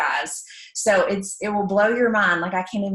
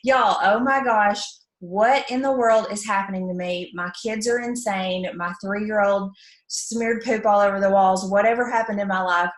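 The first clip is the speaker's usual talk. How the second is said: mock frazzled mom. Mom posting on Facebook about her kids, mock exasperation. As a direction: play the mom at her wits' end, hammed up. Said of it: "I would make a post on Facebook that says".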